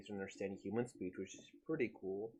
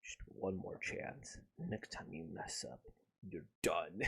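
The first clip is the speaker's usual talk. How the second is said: mock crying; 3 semitones lower, 7 dB quieter than usual. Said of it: "I would start crying like".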